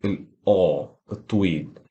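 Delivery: slow, low, rounded long aw; long aw vowel. Shown as a demonstration. Teacher naming the long vowel by sounding it out. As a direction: draw the long vowel out slowly. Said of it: "وده شكل صوت".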